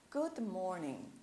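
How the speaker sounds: "good morning" with the final g left unsounded; silent final G. Shown as a demonstration. Teacher shows students a greeting, silent G in "morning". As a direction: say "good morning" slowly, ending on a soft n for the g. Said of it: "o G eu não pronunciei".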